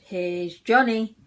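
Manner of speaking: slow, drawn-out "Here's Johnny"; a hint of the menacing movie line; quoting the axe killer. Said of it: "he just goes".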